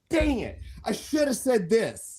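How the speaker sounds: high goofy dang it. Retold or imitated. Dopey high whine. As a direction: guest retelling his late-night regret as Goofy, high. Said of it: "I'll be like".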